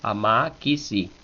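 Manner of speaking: "ama, kisi" with only a moderate lift on "ma"; don't overstress the second A of "ama"; measured mid-height accent in "ama, kisi"; restrained accent. Shown as a demonstration. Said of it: "cuidado no acentuar demasiado la A".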